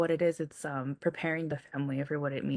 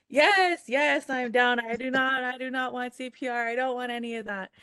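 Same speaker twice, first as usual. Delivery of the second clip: imitating grandma; 7 semitones higher than usual. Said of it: "And she was like".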